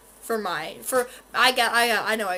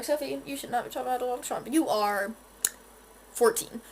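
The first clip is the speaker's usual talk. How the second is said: viewer voice. Pretend. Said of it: "I know you're wondering".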